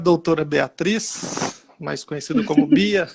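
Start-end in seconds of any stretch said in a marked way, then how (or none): 1.8-3.2 laughing. Real, not acted. Teasing nickname with laugh.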